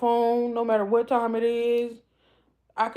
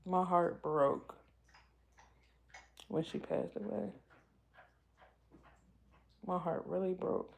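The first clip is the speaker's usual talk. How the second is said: emotional; 8 dB quieter than usual. Real, not acted. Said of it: "I always get emotional talking about her".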